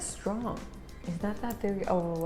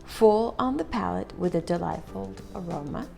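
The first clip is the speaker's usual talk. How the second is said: slow product read; slower than usual. Acted. Reads the tin description aloud.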